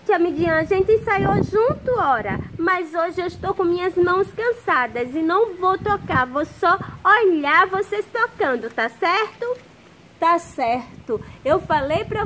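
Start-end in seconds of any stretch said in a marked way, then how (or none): 0.0-9.6 put-on puppet boy voice. Puppet boy Zezinho talks to teacher.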